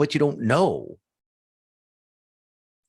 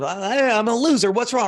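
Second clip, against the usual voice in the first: mock self-pity; 9 semitones higher, 4 dB louder than usual. Imitating self-critical person.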